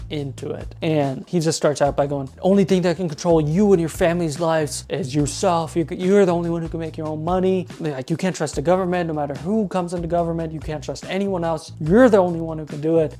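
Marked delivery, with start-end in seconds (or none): 2.4-13.2 hint of a motivational speaker pumping up the crowd; passionate speech. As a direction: retell the pitch with mild mock passion. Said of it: "Lots of passion in his energy".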